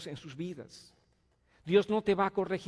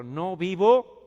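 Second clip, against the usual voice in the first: loud declaration; 3 semitones higher, 11 dB louder, much slower than usual. Shown as a demonstration. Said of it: "A ver, más fuerte esa palabra".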